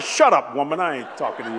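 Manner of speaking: hammed-up shout; barking back to cover tears; mock shout at wife. Telling his wife Kathy off for asking if he cried, mock shout. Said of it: "I said".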